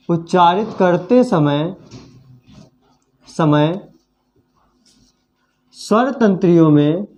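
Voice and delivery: slow, drawn-out dictation pace with long pauses. Shown as a demonstration. Teacher to pupils copying notes, slow dictation. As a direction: read it out phrase by phrase so the class can write. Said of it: "तो यहाँ पे लिख लेते हैं".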